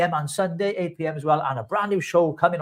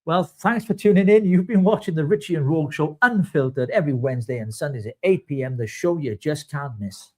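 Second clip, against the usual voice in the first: mock host outro. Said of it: "let's do it together".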